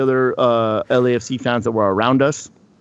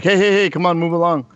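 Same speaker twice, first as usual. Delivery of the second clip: higher-pitched imitation of shooing someone along; retold brisk shooing; 5 semitones higher than usual. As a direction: wave them along, mimicking an official. Retold usher shooing him along.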